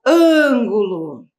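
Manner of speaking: "ângulo" stretched slowly, each syllable separate, falling end; slow dictation. Shown as a demonstration. Teacher dictating to the class, slow and carefully spelled out. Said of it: "Terceira palavra".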